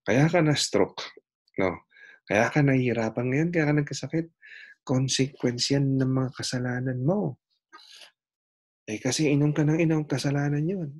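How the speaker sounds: scolding pastor. Retold or imitated. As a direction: lecture the sick neighbour like a self-righteous pastor. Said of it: "Ang sabi ng kapitbahay niyang pastor".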